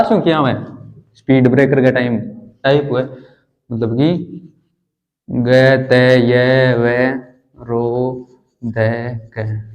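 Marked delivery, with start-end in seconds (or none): 5.3-9.7 low, separate syllables with pauses; syllable-by-syllable dictation. Shown as a demonstration. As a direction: dictate each letter on its own. (एक-एक अक्षर रुक-रुककर)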